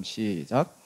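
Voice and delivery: ordinary talk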